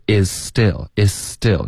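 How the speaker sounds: "is still" said slowly as "i-still"; slow linked "is still", z unheard; silent z. Shown as a demonstration. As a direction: merge "is" into the s of "still", no z. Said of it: "你听不到一个z的音".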